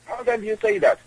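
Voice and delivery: outraged, rising repeat of the question; indignant disbelief. Retold or imitated. Repeated question, much higher.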